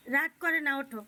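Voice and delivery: loud firm coaxing; insistent plea. Real, not acted. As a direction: raise the voice to push him up. Soothing a sulking child.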